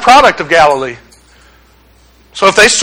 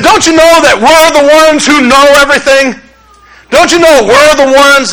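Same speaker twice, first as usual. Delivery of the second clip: louder, higher mock of smug know-it-alls; arrogant church leaders; 5 semitones higher, 3 dB louder than usual. Preacher mocking the church leaders, smug and loud. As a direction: puff up like self-important leaders. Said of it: "here's the leaders of the church".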